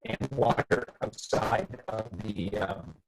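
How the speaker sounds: choppy, breaking-up mic audio; mic cutting out. Real, not acted. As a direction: voice dropping out over a bad connection. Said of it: "your mic is cutting out".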